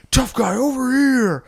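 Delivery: high, loud sneering villain voice; taunting Grinch. Acted. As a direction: call him out like a cartoon villain.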